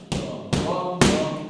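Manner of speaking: loud punch-by-punch booms; boxing coach calling combos. Shown as a demonstration. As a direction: shout boom on every hit. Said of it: "calling punches as they land".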